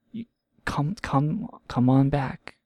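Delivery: slow, whispered come-on-back; slow whisper, beckoning; coaxing whisper. Real, not acted. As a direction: lure them back gently, slowly.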